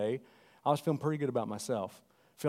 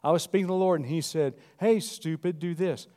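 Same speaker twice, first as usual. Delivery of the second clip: louder, fast mock of a preacher; mocking minister quote; 5 semitones higher, 6 dB louder than usual. Preacher mocking ministers, louder mock quote. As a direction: lampoon how ministers claim God talks. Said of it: "They'll say it like this".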